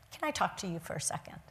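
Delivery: a soft, quick, breathy whisper. Retold or imitated. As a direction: lean in and whisper it privately, fast. Pregnant woman quietly approaches her.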